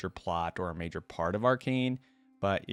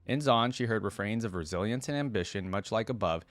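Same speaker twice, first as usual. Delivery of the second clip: measured read-aloud storytelling voice; story narration. A narrator's reading. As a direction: read it out like a written biography. Reads champion biography aloud.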